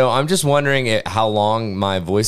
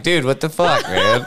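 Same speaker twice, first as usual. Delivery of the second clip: laughing; 4 semitones higher than usual. Retold or imitated. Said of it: "And Larry's like".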